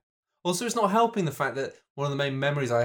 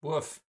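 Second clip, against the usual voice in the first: test woof; 4 semitones higher, 5 dB quieter than usual. Pretend. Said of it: "I want you to woof".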